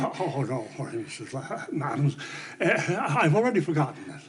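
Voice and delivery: put-on winded old man, short of breath; gasping between words after stairs. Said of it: "and so out of breath".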